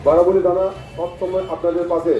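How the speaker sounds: public address through a loudspeaker; police loudspeaker announcement. Real, not acted. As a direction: announce it over a street loudspeaker. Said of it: "police প্রশাসনের miking".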